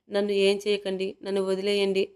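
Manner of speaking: plain reading voice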